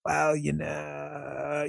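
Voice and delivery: slow, soft, creaky vocal fry. Shown as a demonstration. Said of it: "Here's the Queen of Vocal Fry".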